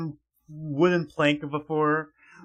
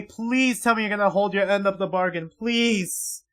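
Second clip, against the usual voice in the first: raised, emphatic begging; urgent pleading. Pretend. Reader begging a character to keep the bargain, urgent pleading. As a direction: plead hard, stretching the key words. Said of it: "I'm begging you".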